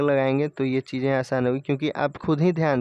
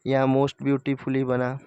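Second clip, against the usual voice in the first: most beautifully said slowly and carefully; slow, clear example; slower than usual. Shown as a demonstration. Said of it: "यहाँ more beautifully बना". (धीरे, साफ़ उदाहरण)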